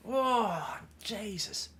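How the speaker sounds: breathy whispered "Jesus"; whispered exasperation. Real, not acted. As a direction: mutter it under your breath in disbelief. Exasperated aside after the story.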